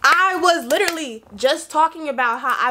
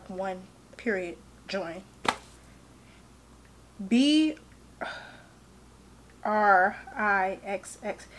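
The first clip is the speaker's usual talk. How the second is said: spelling it out; 4 semitones lower, 9 dB quieter, slower than usual. Real, not acted. Spelling her Wi-Fi password aloud.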